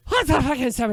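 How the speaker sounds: high, loud Scottish outburst; Scottish uncle. Acted. Uncle stunned by the ball of ducks, loud Scottish yell. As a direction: explode in a hammy Scottish accent. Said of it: "Now he's half Scottish".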